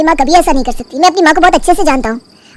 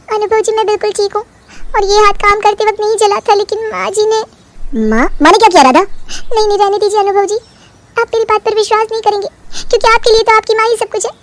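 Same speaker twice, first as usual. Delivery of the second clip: 1 fake poor victim; 4 semitones higher than usual. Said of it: "बेचारी बनने का नाटक करती है".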